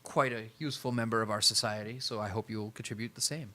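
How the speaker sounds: a hint of a polite elder vampire; lightly voiced sire's associate. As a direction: welcome them with restrained formality.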